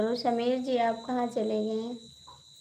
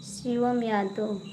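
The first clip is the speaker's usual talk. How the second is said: full name; slower than usual. Shown as a demonstration. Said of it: "पूरा नाम कहेंगे".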